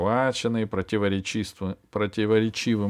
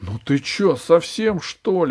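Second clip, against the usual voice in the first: exasperated, fed-up outburst, pitched up; 8 semitones higher, 4 dB louder than usual. The narrator, arguing with another man, losing his temper. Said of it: "Выходил я из себя".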